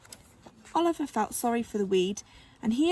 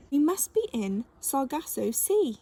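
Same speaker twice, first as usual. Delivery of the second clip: excited; 4 semitones higher than usual. Acted. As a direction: announce it with rising thrill. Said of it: "he said excitedly".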